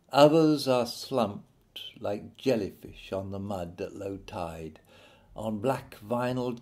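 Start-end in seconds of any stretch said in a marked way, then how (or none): 2.0-4.8 hushed, breathy aside; whisper. Acted. Narrator whispering to parents about the slumped staff. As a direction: drop to a whisper for the grim image. Dramatic description of slumped teachers.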